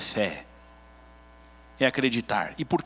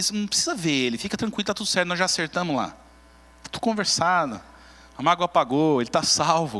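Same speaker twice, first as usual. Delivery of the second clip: tom de quem acalma e resolve tudo sozinha; Marta condescendente. Acted. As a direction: fale com superioridade tranquilizadora, meio agudo. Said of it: "Sabe o que que Marta tá dizendo". (Marta dizendo a Jesus que não precisa exagerar, condescendente)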